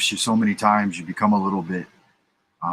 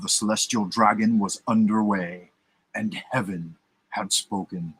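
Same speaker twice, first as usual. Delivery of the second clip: grand dramatic storyteller narration; theatrical voice. Shown as a demonstration. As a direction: read it like a dramatic radio host. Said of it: "See if I can get into a theatrical voice for this".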